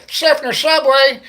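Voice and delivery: high, loud, slow proud shout; loud announcer call. Pretend. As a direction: call it out like a sign.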